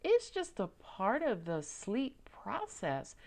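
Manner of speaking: soft, slow, gentle reassurance; slow it down and calm them like a baby; soothing universe. Retold or imitated. The universe soothing a panicked sleeper, soft and slow. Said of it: "And the universe is like".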